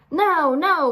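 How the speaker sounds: high, loud eager protest; cried. A narrator's reading. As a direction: jump in excitedly. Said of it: "Morris cried".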